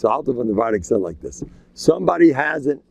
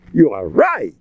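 with relish; 2 semitones higher, 4 dB louder than usual. Shown as a demonstration. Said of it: "I say it with a geschmack".

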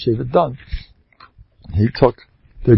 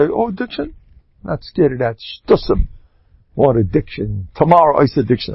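dismissive; 2 semitones higher than usual. Shown as a demonstration. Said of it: "If you say".

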